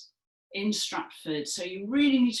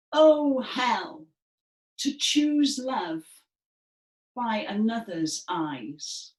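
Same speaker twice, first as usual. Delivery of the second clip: higher, louder, slow lament; despairing Hermia; 3 semitones higher, 5 dB louder, slower than usual. Shown as a demonstration. Teacher and class voicing Hermia, big despairing wail. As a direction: wail it like a wronged daughter. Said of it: "our best Hermia voice".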